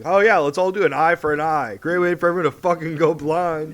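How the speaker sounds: hammed-up sarcastic comeback; mock-agreeing sass, lively and sweeping; sassy Jesus. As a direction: play a mouthy wisecracker. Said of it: "being sassy".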